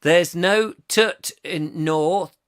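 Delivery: very slow mock Northern; Northern English accent. Explaining northern speech, slow mock Northern accent. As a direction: spell out dialect in a Northern accent.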